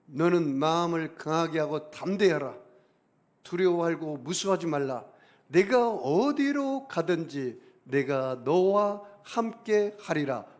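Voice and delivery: loud, slow, declaiming God's words; proclaiming scripture. Acted. Pastor proclaiming God's promise to Joshua, loud and slow. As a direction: thunder the promise out slowly.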